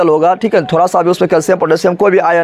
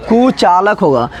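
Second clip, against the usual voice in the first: धीमा जवाब; slower than usual. Shown as a demonstration. Teacher stresses the answer slowly.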